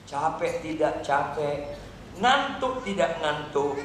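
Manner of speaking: "Capek tidak capek" slow and level; measured exhortation. Real, not acted. Preacher urges daily Bible reading, "capek tidak capek" slow, measured. First take, low and slow.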